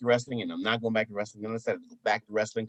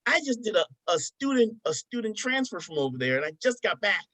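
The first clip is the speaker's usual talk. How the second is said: high imitated woman's voice, running on; knowing woman; 7 semitones higher than usual. Woman back from student transfer, high mimicked voice. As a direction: mimic her explaining, pitched high. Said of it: "She was like".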